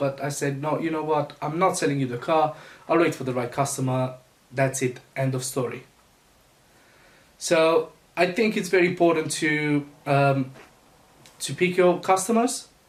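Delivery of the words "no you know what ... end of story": ordinary delivery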